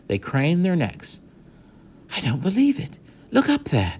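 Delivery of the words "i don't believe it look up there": shout. A narrator's reading. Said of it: "shouted Omri".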